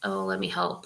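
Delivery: mock superior, arrogant, self-important, eager-helper tone. Describing how not to offer help when new somewhere: imitating an arrogant helper. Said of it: "in a kind of arrogant way".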